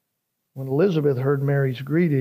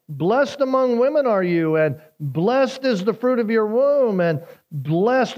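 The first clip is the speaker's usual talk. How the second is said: proclaimed quote; 5 semitones higher than usual. Acted. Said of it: "She cries out with a loud voice".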